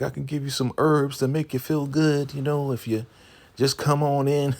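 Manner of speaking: high, coaxing mock seductress; flirty come-on. Elder Mother coming on to Andrew, high flirty voice. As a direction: lift the voice high to lure him in. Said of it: "is coming on to Andrew".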